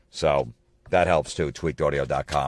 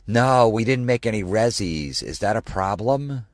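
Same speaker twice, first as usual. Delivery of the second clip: higher-pitched imitation of a girl customer; mock a woman diner in a raised voice; lightly put-on female customer; 4 semitones higher than usual. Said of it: "the couple, the girl".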